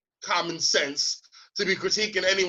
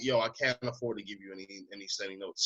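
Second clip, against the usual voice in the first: retold refusal; 11 semitones lower, 9 dB quieter than usual. Retelling reply to beggar.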